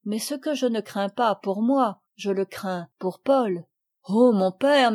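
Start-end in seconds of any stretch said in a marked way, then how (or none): 4.1-4.9 exclamation plus forte, suppliante; s'écrier vers son père. Acted. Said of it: "m'écriai-je". (l'enfant s'écrie vers son père, plus fort)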